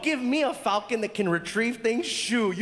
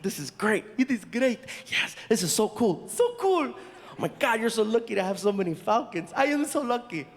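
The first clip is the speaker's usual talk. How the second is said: mock excitement; 2 semitones higher than usual. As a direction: ham up the giddy delight. Acting out excited exchange.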